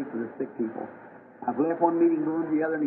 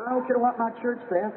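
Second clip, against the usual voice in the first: put-on defiant sick girl; 7 semitones higher than usual. Sick girl defies her church.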